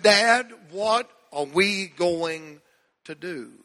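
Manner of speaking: tearful plea. Retold or imitated. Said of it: "I, I was crying".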